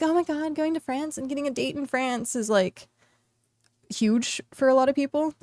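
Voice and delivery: a hint of breathless girly excitement; lightly playing the gushing girly pops; mock girly gushing. Mocking girls dreaming of a date in France, lightly gushing. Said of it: "they're like".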